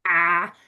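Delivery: "ah" as a long open vowel; Māori A vowel. Shown as a demonstration. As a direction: say "ah", drawn out and low. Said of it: "we really want to say".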